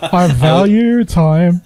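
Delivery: slow, laughing mock excuse. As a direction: drag it out through a laugh. Mock excuse to tax office.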